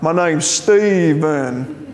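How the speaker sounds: slow, drawn-out mock Spanish accent; exaggerated Spanish-accented echo, stretched out slowly; mimicked Spanish accent. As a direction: parrot a Spanish speaker's accent on "Stephen". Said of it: "heard me kind of mimicking them".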